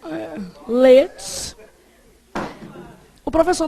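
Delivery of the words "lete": "leite" tried slowly as "lêts", without the I; louder, experimental "leite" with a plain ê; dropped vowel demo. Shown as a demonstration. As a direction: test "leite" aloud with the I left out. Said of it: "Se o I sumir".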